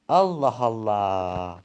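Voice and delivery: long drawn-out Allah Allah, slow and weary; "Allah Allah" stretched slowly, weary and fed up; exasperated sigh. Acted. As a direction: drag out "Allah Allah" in tired disbelief.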